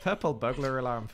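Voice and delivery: mock Scottish accent with rolled r. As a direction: have a go at a Scottish tongue-twister. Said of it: "You gotta say that in a Scot".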